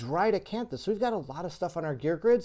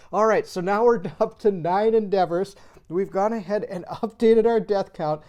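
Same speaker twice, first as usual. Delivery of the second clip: louder, laughter still bubbling through; laughing so much; 6 dB louder than usual. Real, not acted. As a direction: carry on through leftover real giggles. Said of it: "sorry I'm laughing so much".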